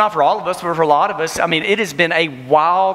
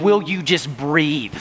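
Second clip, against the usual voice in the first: gentle; slower than usual. Retold or imitated. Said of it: "God was gonna be patting me saying".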